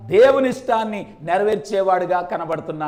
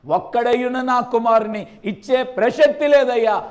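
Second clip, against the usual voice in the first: protesting father. Pretend. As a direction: argue with God as the wronged father. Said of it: "అలాగ మాట్లాడాల్సింది". (దేవునితో వాదిస్తున్న తండ్రి, ఆవేశంగా)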